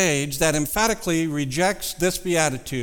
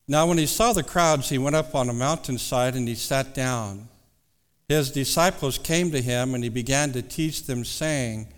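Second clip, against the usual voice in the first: scripture reading; 2 semitones lower than usual. Acted. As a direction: read the verses with reverence. Reads scripture aloud.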